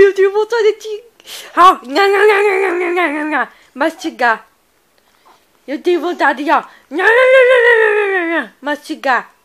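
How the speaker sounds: doting nibbling sounds; playful baby talk. Acted. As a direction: pretend to munch the baby. Playful pretend eating.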